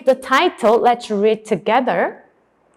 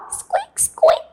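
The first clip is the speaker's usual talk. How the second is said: tiny high squeaks; high-pitched imitated squeaking; mouse squeak. Imitates mouse before naming it.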